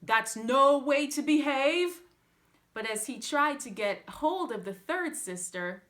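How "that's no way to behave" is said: scolding pastor. A narrator's reading.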